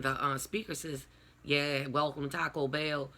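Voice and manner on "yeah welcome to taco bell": first try at a down south drive-thru greeting; lightly imitated Southern accent. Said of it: "a down south accent".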